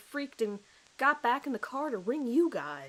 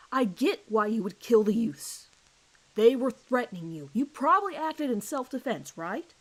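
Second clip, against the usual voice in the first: pressing interrogation; 2 semitones higher, 5 dB louder than usual. Acted. Detective presses suspect.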